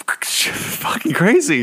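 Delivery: slow breathy whisper. Real, not acted. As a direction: drop to a hushed whisper. Whispered punchline about Chucky.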